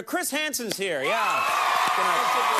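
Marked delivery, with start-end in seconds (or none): 0.0-1.0 announcer shout. Acted. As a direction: draw out the big name. Slow shouted intro.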